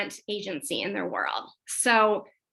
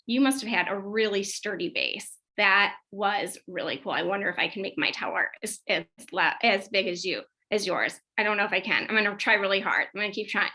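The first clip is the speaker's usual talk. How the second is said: lightly awed praise. Shown as a demonstration. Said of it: "you are just in awe".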